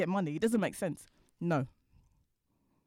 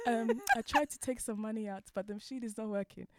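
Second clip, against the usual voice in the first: polite, slow and careful; 4 semitones higher than usual. Retold or imitated. To the bank teller, asking about the broken machine, politely and slowly. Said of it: "So I was really polite, really slowly".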